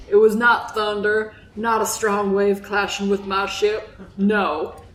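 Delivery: lightly voiced Southern old salt of a fisherman; Southern accent, telling a grave sea tale. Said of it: "that's my Southern accent".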